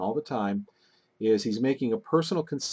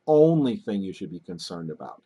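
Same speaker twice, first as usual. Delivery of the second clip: heavy opening emphasis on "only"; stress on "only"; 4 dB louder than usual. Shown as a demonstration. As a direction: punch "only", then let the rest fall. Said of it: "what you're saying is".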